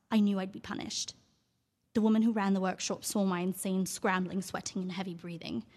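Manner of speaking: theatrical monologue read with feeling. Acted. Actress reading her monologue aloud on radio, theatrical. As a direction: perform the monologue for the radio audience. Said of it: "read a quick passage from your role".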